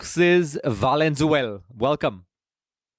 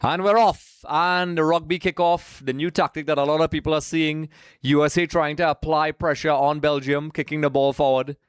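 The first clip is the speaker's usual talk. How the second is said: play-by-play; 3 semitones higher than usual. Real, not acted. Live kickoff commentary.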